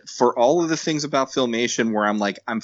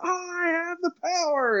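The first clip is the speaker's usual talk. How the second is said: He-Man; 3 dB quieter than usual. Retold or imitated. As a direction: belt out a superhero's transformation call. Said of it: "This is He-Man. He's like".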